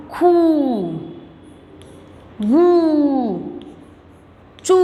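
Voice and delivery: खू, गू, चू each with a held oo; long, forceful u. Shown as a demonstration. Teacher drilling the big u sign, खू, गू, चू held long. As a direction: push the long oo in खू, गू, चू. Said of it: "इस तरह से इस शब्द का हम उच्चारण".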